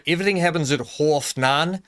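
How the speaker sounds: a touch of South African, half as "horf", nine as "nan"; mild South African accent. Shown as a demonstration. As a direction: lightly try a South African voice. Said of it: "when you start to do that, you go".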